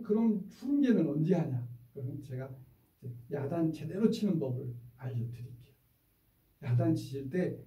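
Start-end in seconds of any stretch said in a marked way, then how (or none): none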